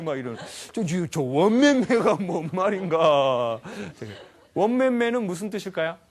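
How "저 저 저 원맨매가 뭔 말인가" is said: higher, louder, slow hammed-up puzzling; mock puzzlement. Speaker playfully puzzles over the word, hammed-up bafflement. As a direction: drag it out in comic bafflement.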